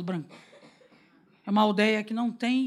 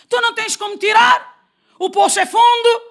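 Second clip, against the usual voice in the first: loud, much higher mock scolding with a laugh; scolding woman; 11 semitones higher, 10 dB louder than usual. Samaritan woman scolding Jesus, loud high and laughing. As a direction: snap back at Jesus in a high mocking voice. Ela esculhamba de novo.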